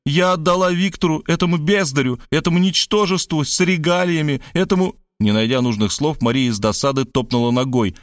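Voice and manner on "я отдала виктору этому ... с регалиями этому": higher, impassioned woman's voice; theatrical self-accusation, pitch up; fervent exclamation. A narrator's reading. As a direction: build up scorn, breaking off unfinished. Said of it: "вдохновенно воскликнула она".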